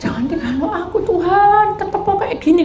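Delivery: high, laughing plea not to be left; pleading mock prayer. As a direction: beg with a half laugh, up high. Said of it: "kalau kita merasakan".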